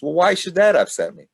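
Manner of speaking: put-on high, loud whining of an upset boy; grandson upset. Grandson after losing at bingo asks himself, high and whiny. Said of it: "and then he says".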